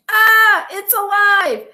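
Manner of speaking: very high, loud shriek; terrified lady's scream. A narrator's reading. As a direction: scream in horror. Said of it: "the lady screamed".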